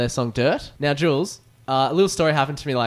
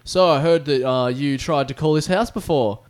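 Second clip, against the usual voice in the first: retold angry man; 4 dB louder than usual. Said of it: "This angry man answers the phone".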